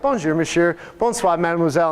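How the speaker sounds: light imitation of Minnesotans speaking French; French pleasantries with a northern Midwestern accent. Hotel staff having fun with French, Midwestern accent. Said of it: "northern Midwestern accent".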